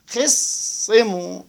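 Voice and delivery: drawn-out یخصمو; slow yakhissimu. Shown as a demonstration. Teacher sounding out the kasra form. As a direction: say یخصمو slowly, sad doubled. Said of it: "اگر خصمه باشد".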